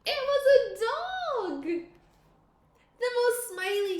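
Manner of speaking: high, loud, slow delighted reveal; excited reveal. A narrator's reading. Teacher revealing the surprise dog, thrilled. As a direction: announce it with delight.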